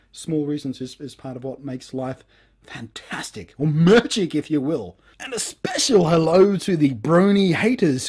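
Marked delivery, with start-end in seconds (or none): 3.6-4.3 magic popped out as a punchline; magic lightly stressed. Shown as a demonstration. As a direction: land the word magic with a little lift. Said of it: "emphasize the word magic".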